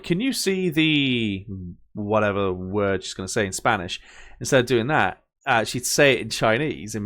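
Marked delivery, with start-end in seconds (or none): 0.0-1.5 high, slow teacherly "Can you see the"; drawn-out Dora prompt for kids. Retold or imitated. Imitating Dora teaching a word to kids, slow and high. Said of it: "her going like".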